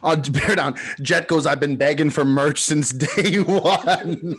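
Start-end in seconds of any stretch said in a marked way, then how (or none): 1.5-4.4 slowing down into a laugh; laughing quote. Retold or imitated. Quoting Jet begging for merch, laughing through it. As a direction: let laughter break up the final words.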